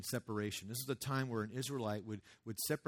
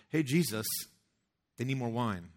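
mom calling out; 8 dB louder than usual. Retold or imitated. Mom hinting to Jesus.

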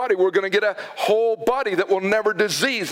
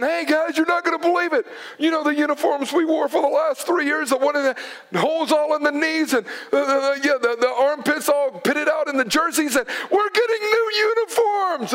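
put-on excited kid; 4 semitones higher than usual. Kids fired up about uniforms.

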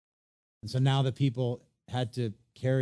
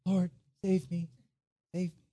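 panicked plea; 6 semitones higher than usual. Retold or imitated. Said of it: "How do you think Peter prayed when he was sinking".

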